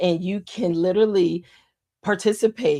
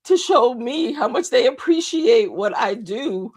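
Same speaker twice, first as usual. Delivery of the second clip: higher voice, close to breaking into tears; overwhelmed with gratitude, starting to cry; real tearful voice; 5 semitones higher than usual. Real, not acted. Host moved by followers' appreciation, tearful. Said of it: "I'm crying literally live".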